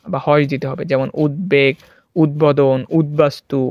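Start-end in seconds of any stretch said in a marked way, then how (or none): 1.2-3.6 উদ্বেগ, উদ্বোধন, উদ্বাস্তু with audible b; b kept. Shown as a demonstration. Teacher recapping examples, clear b in উদ্বেগ, উদ্বোধন, উদ্বাস্তু. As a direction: break each after "ud": উদ্বেগ, উদ্বোধন, উদ্বাস্তু. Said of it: "এইভাবে".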